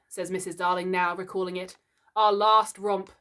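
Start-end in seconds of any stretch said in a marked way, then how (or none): 2.2-3.1 groaned. Acted. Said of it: "Mister Darling groaned".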